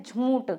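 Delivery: झूठ as some say it, nasal jhoonth; झूठ with a nasalised oo; common mispronunciation. Retold or imitated. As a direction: slip an n sound into झूठ. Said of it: "कुछ लोग बोलते हैं".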